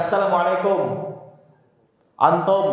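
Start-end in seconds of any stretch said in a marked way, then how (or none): 0.0-0.8 "assalamualaikum" with a flat open O at the end; sloppy "assalamualaikum" ending in kom; lazy unrounded "assalamualaikum"; wrong dhammah. Shown as a demonstration.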